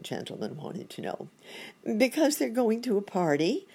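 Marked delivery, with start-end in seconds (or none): 2.0-3.7 high-pitched exclamation; high, emphatic storybook monkey; exclaiming monkey doctor. A narrator's reading. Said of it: "exclaimed Doctor Monkey Doodle".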